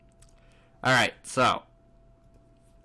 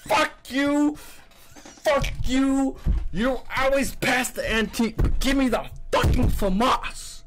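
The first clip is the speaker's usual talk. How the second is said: much higher furious yelling; angry shout; 12 semitones higher than usual. Real, not acted. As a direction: scream it at the screen. Raging at a bad case drop.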